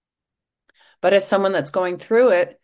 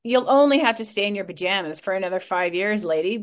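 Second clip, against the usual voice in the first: imitating a dismissive doctor, voice rising at the end; mock nonchalance; faster than usual. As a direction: breezily brush it off as the doctor. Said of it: "so nonchalantly, like".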